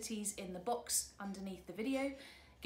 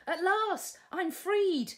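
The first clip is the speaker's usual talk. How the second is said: joyful princess on horseback; delighted princess; 6 semitones higher, 6 dB louder than usual. Acted. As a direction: savour being free. Sue's voice.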